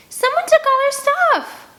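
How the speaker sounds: high, loud, slow shrieking wail; screeching. A narrator's reading. Girl shrieking to the boy across the river, loud and high. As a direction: screech it out in panic. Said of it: "Scarlet screeches".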